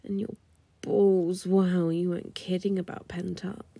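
ordinary talk

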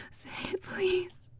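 breathy pleading whisper. Acted. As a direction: beg in a whisper. Pleading softly.

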